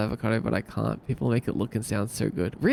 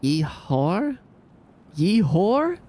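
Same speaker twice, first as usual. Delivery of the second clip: high rising pirate Yeehor; 7 semitones higher, 4 dB louder, much slower than usual. Pretend. Streamer turns the cowboy yeehaw into a pirate yeehaw, pirate voice. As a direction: growl it out like a pirate, up at the end. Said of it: "Pirate now".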